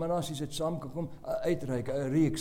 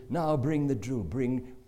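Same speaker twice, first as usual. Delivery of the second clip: ominous order; 2 semitones lower, 5 dB louder, slower than usual. Retold or imitated. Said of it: "And he said".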